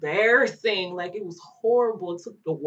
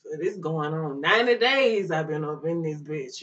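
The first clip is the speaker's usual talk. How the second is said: talking real hard; 3 semitones lower than usual. Retold or imitated. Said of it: "just real hard".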